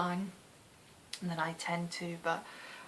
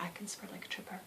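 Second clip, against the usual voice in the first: whispered laugh; 11 dB quieter, faster than usual. Retold or imitated. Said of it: "It's like".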